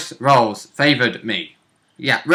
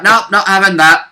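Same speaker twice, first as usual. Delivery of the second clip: slow, firm, put-on voice of Tandir, a bit louder; Tandir's gruff refusal; 5 semitones higher, 6 dB louder than usual. Player voicing Tandir refusing to let Yellowfang flee, slow and firm. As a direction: flatly refuse as the warrior. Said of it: "Tandir was like".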